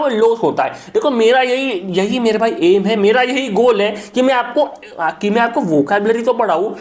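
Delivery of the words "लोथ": "लोथ" said as one syllable with a long o; pronunciation demo. Shown as a demonstration. Teacher showing students how the word is pronounced, pronunciation demo of "लोथ". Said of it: "इसका जो मेरे भाई pronunciation होता है".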